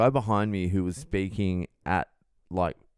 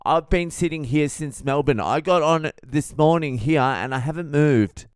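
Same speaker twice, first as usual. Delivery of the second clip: higher, louder indignant stranger; a touch of the indignant loud guy; 7 semitones higher, 5 dB louder than usual. Retold or imitated. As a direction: protest loudly. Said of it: "And he's like".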